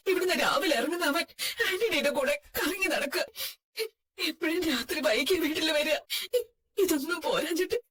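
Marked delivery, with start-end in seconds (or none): 4.3-7.8 crying between phrases; weeping complaint. Acted. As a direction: tell it through sobs to your daughter. Mother tells daughter, weeping. (കരഞ്ഞുകൊണ്ട് പരാതി)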